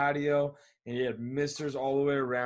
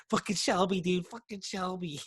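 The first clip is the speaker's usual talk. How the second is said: drunk imitation; 5 semitones higher than usual. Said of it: "He's just like".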